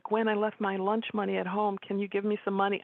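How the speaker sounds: a hint of a kid asking sweetly; wheedling little brother. Younger brother asking his sister for lunch money, lightly wheedling.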